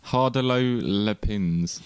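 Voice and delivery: French place name said the English way, slowly; English accent. Shown as a demonstration. Host jokingly naming the course in an English accent. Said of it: "in my English accent".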